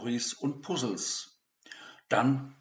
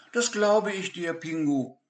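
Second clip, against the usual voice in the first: sympathetic; 7 semitones higher, 5 dB louder than usual. Acted. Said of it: "meinte Peter mitfühlend".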